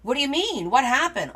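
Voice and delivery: high-pitched mock alarm; imitating a startled neighbor asking; concerned neighbor. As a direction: take the bait as the worried neighbor. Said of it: "the neighbor will be like".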